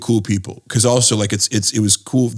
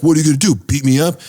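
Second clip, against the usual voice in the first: put-on Indian accent; 5 semitones higher, 4 dB louder than usual. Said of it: "he had this Indian accent".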